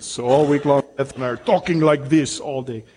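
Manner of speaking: playful imitation of a Nigerian accent; attempted Nigerian accent. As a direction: lightly put on a Nigerian accent. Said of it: "impressed us the most were the Nigerians".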